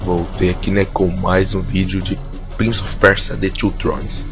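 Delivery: hoarse voice from an inflamed throat; talking through a sore throat. Real, not acted. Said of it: "minha voz tá estranha assim".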